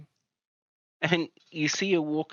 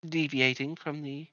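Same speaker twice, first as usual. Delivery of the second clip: lightly voiced friendly healer, a bit higher; welcoming healer lady; 3 semitones higher than usual. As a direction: greet newcomers like a kind herbalist. GM voicing the herbalist.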